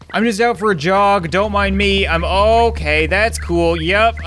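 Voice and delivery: high, loud casual innocence; innocent act. Pretend. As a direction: act like nothing happened. Caught again, feigning innocence.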